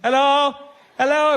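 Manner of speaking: calling out. Acted. Driver calls to the hitchhiker from the car window, loud. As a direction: call to the man outside.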